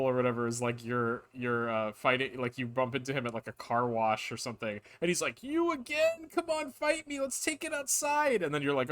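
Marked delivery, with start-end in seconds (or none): 5.4-8.4 put-on spilled-drink frat boy snapping back; drunk frat boy wizard. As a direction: play the sloppy party bro wizard. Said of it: "frat boy wizard".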